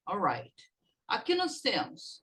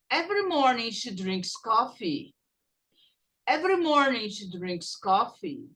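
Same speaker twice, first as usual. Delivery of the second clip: clear, steady model sentence for students to repeat. Shown as a demonstration. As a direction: say every word cleanly so they can copy. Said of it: "Repeat after me".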